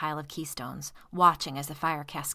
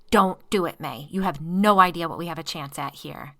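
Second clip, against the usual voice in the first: urgent plea; 8 dB louder than usual. Acted. Man pleading amid the fire.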